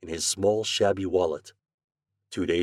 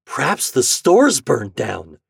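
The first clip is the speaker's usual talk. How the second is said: slow, louder, dismayed guess; alarmed gasp; 4 semitones higher, 7 dB louder, much slower than usual. A narrator's reading. Boy guessing at disaster, alarmed. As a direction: voice the dread slowly and loudly. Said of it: "gasped Homer".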